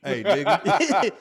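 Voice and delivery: drawn-out high echo of a street holler; imitated long, high call; distant yell. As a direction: copy the far-off yell, slowly, amused. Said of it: "you just hear it off in the distance".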